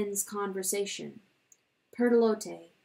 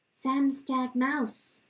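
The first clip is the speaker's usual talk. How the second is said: low and loving; 3 semitones higher, much slower than usual. Acted. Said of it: "she spoke in a low love".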